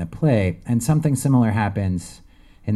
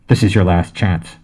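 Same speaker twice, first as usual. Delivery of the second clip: barked over bullhorn; 6 dB louder than usual. Acted. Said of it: "the bullhorn barked".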